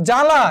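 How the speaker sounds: জ্বালা said as jala, with no b; silent b. Shown as a demonstration. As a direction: drop the b in জ্বালা entirely. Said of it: "এখানে ব ফলার উচ্চারণ হয়নি।".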